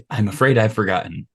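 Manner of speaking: lightly voiced harmless old man; a hint of a doddering old man. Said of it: "In my harmless old man voice".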